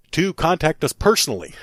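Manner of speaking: winded after a long list; pushing on while short of breath. Real, not acted. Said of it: "I'm almost out of breath here".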